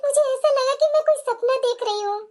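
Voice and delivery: measured inner monologue in short phrases; voice-over monologue. Acted. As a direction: narrate the bride's plight, phrase by phrase. (आपबीती सुनाता voice-over)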